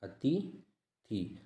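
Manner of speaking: अतिथि drawn out very slowly, syllable by syllable; careful spelling-out. Shown as a demonstration. Teacher slowly sounding out अतिथि for students. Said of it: "वो अतिथि होता है".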